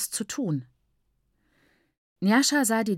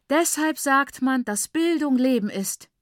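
higher-pitched, emphatic cry of admiration; exclaiming; 6 semitones higher, 4 dB louder than usual. A narrator's reading. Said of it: "rief sie".

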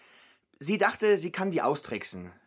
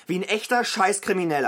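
louder, higher accusation; angry yell; 4 semitones higher, 5 dB louder than usual. Acted. Brother accusing Fabian of blackmail, angry yell. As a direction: spit the insult at him. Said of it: "Hey, schrei nicht so".

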